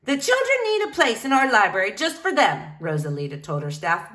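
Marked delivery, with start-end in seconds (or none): 0.0-2.7 a bit higher and louder; firm but cheerful; lightly voiced determined librarian. Rosalita tells her staff.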